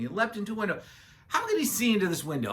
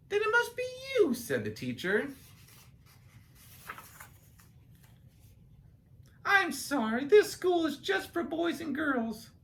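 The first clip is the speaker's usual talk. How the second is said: teacher voice; 10 semitones higher than usual. Acted. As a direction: call the class together like a kind teacher. Teacher tells seal to leave.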